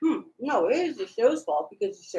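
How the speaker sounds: talking while chewing; words around a mouthful of food; mouth full. Real, not acted. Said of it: "Don't talk with your mouth full".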